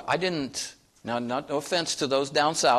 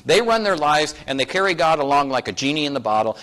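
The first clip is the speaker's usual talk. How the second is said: ordinary talk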